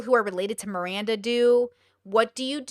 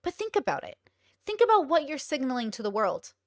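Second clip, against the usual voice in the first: imitating calm; 3 dB quieter than usual. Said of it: "He'll say it, like, very calmly".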